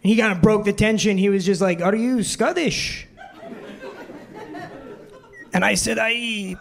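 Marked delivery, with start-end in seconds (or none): 1.8-3.1 imitating a puzzled Scotsman's accent; slow, questioning Scottish brogue. Customer questions the mimicking waiter, Scottish accent. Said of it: "a really thick Scottish accent". 6.0-6.6 mock Scottish accent; fake Scottish accent. Waiter bluffs being a Scot, fake Scottish accent. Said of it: "I had to talk like that".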